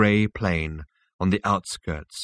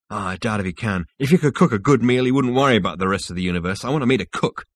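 lightly voiced character, growing more animated; Zaphod reflecting; 2 semitones higher, 3 dB louder, faster than usual. Zaphod reconsiders meeting the universe's ruler, lightly animated. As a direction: start musing, then lift into a quicker retort.

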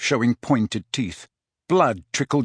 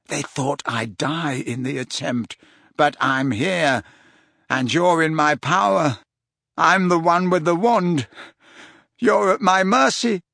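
rising threat; 4 semitones higher than usual. Acted. Malfoy threatening Dumbledore.

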